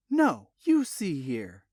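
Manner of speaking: slow, stress on you in No, you see here; defiant counter. Acted. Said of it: "Jesse countered".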